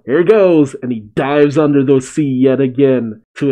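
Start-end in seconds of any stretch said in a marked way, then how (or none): 0.0-0.7 mild mock yell, pitched up; slightly raised, higher shout; retold yell. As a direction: call it out lightly before a plunge. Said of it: "Jinbei yells out".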